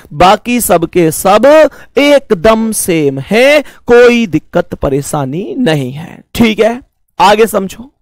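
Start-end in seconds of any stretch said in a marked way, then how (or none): 0.1-3.6 slow emphatic restatement. Shown as a demonstration. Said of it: "बाकी सबके सब कैसे हैं?".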